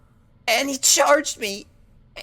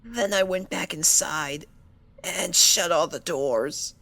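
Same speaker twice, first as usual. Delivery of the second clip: subdued; 8 semitones lower, 5 dB quieter than usual. Acted. Fluttershy quietly recounting after crying.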